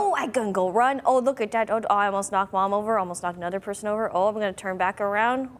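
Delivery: voicing the dog; playful dog voice. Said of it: "We didn't even request the dog voice".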